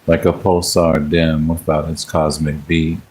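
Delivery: slow, measured poem recital; poetry reading. Acted. Streamer reading a love poem to live viewers, measured recital. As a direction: recite it line by line, unhurried, with pauses between phrases.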